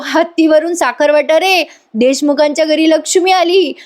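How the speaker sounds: high-pitched celebratory announcement; retold jubilant proclamation. Father celebrates a daughter born to the family, jubilant. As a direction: proclaim the birth, pitch held up.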